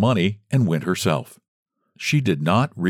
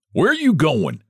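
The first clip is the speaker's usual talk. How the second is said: shouted; 8 semitones higher, slower than usual. A narrator's reading. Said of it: "he shouted".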